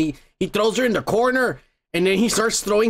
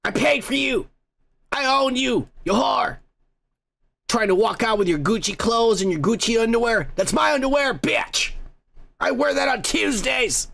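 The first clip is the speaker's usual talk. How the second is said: mild acted rant, pitch somewhat raised; mock angry yelling. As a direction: lightly imitate a possessive man's tirade. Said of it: "He's yelling".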